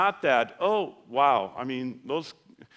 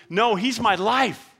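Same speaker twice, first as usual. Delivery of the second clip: loud and slow, each word weighted; emphatic declaration; 7 semitones higher, 7 dB louder, slower than usual. Real, not acted. Preacher urges the congregation to say Jesus is their life, proclaimed slowly and loudly. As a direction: declare it high and strong, slowly. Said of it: "emphatic declaration".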